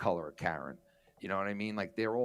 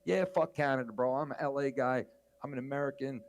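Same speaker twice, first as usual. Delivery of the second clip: mock cocky boast; 3 semitones higher than usual. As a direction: taunt like a proud new American. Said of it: "He was like".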